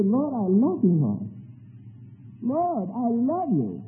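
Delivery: rising, urgent cry of love to the Lord; fervent declaration. Shown as a demonstration. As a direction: pour it out, you just have to tell him. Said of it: "you just gotta tell him you love him".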